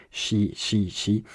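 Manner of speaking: "chi" drilled alone as soft "shee"; syllable on its own. Shown as a demonstration. Teacher drilling each syllable, "chi" said on its own. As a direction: repeat "chi" evenly, each one apart. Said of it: "say each syllable on its own".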